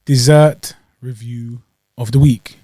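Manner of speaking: slow show-title announcement; announcer voice. Acted. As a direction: announce it like a TV segment. Show segment title intro.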